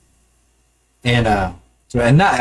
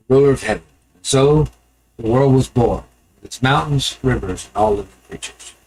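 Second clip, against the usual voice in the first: epic fantasy narrator. A narrator's reading. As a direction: tell it like an ancient legend. Storytelling Sumerian creation myth.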